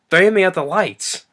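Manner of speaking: hammed-up pompous chief repeating; mock dumb chief. Chief parroting the cop, mock pompous. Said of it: "then Paul Gleason goes".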